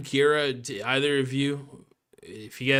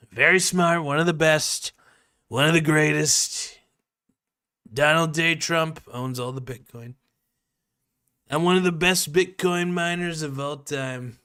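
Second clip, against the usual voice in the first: Trump impression; 3 semitones higher than usual. Streamer boasting to chat as Trump, light impression. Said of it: "that Trump impression is spot on".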